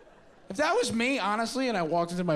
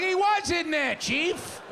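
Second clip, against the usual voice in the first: Dreyfuss joke line; slower than usual. Retold or imitated. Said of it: "he's like".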